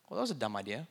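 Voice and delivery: laughing at my own mistake; a rueful laugh at yourself; self-mocking laugh. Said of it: "I said".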